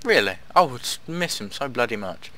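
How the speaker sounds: dry mock sympathy; sarcastic. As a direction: pretend to care, dripping sarcasm. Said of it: "that was sarcasm".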